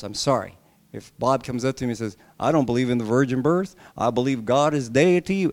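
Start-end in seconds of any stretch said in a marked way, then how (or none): 2.4-5.5 lightly imitated Southern accent. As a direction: play Bob with a mild Southern twang. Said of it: "not all Southerns are that bad".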